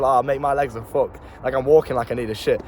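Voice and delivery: lightly joking moan, barely above plain voice; jokey. Retold or imitated. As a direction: brush it off with a laugh in the voice. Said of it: "a jokey way".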